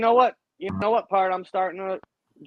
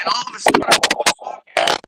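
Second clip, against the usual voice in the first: chipmunk voice; 4 semitones higher, 5 dB louder than usual. Retold or imitated. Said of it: "like I was one of the fucking chipmunks".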